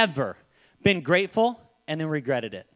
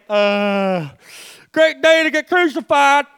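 loud, raised hammed-up redneck drawl; Jesus redneck voice; 7 semitones higher, 5 dB louder, slower than usual. Preacher mocking Jesus waking up eager for crucifixion, redneck voice. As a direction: groan it out as a mock redneck Jesus. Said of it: "That was my Jesus redneck voice".

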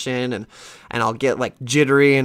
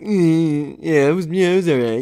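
unimpressed shrug; 3 semitones higher than usual. Retold or imitated. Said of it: "I leave his movies and I'm like".

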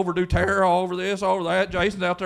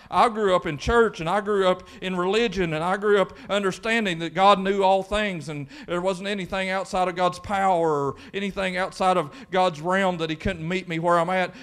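normal talking voice

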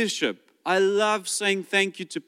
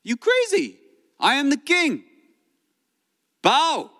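higher, rising, pompous demands; arrogant king; 7 semitones higher than usual. Retold or imitated. Pastor mocking a king who demands to be served, pompous.

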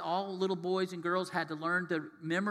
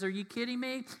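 higher, incredulous retort; acted indignant challenge, raised in pitch; mock indignation; 6 semitones higher than usual. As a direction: question them in mild disbelief. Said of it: "Jesus was indignant".

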